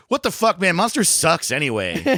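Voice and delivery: high, outraged mock voice; imitating a van guy. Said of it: "one of the dudes in the van goes".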